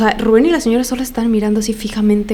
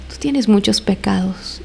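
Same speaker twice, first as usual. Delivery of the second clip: slow, deliberate accusation; imitated slow taunt; retold taunt; slower than usual. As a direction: draw out the accusation as if quoting a possessed man. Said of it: "Y se empezó a reír".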